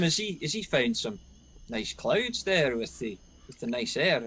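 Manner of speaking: ordinary talk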